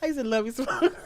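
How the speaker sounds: dad joke voice. Real, not acted. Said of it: "Why'd I do that in a dad joke voice?".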